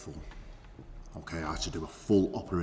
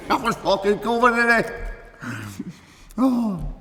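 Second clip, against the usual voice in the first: much higher and much louder, cackling through the gore; manic laughing shout; 9 semitones higher, 12 dB louder, slower than usual. Acted. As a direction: crow about it with crazed delight. Gleeful retelling of a gory kill.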